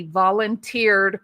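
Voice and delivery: VOLUNTEERED drawn out slowly in air quotes; verbal air quotes. Real, not acted. Reading out a viewer's comment on medics, VOLUNTEERED in slow air quotes. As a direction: set VOLUNTEERED apart, slow and pointed, as if quoted. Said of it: "quotation marks".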